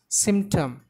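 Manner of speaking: "Symptom" as SYMP-tom, second syllable falling away; stress on first syllable. Shown as a demonstration. Teacher showing learners the stress, SYMP in "Symptom". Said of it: "The stress should be given on very first syllable".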